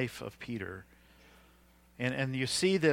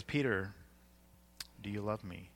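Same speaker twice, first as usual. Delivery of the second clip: gentle questioning; 4 semitones lower, 7 dB quieter than usual. Retold or imitated. Jesus gently questioning Peter, retold.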